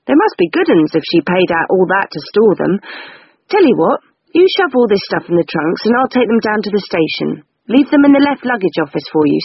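lightly voiced chirpy clerk, brisk; a hint of a helpful London clerk; cheerful clerk. Lawyer's clerk speaks, cockney idiom.

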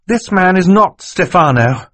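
acted high-voiced girl, insistent; urgent girl's accusation. A narrator's reading. Violet takes breath, accuses Stefano.

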